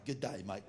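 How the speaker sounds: imitating a clumsy American G'DAY MATE; mock American attempt. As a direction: say "G'day, mate" like a foreigner getting it wrong. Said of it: "Sounds like you're from some mental home".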